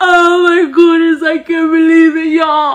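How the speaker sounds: mock tearful sobbing, high-pitched crying voice. Mocking people crying on the internet over election results, mock crying. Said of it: "they're all crying like".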